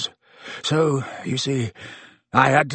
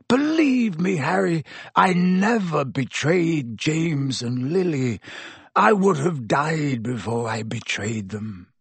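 pleading; 3 semitones higher than usual. Acted. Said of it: "croaked Black".

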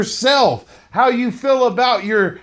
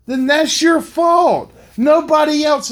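forceful shout; 4 semitones higher than usual. Real, not acted. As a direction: hammer it home like a coach. Motivational peak, hammering the point.

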